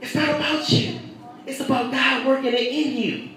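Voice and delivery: preacher to congregation, quiet and intimate; softened repeat. Acted. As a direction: say "It's not about you" gently, pulled back. Preacher repeats line loud then soft.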